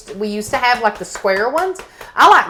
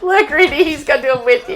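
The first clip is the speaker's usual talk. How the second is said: excited dog talk; 6 semitones higher than usual. Real, not acted. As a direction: hype up the dog.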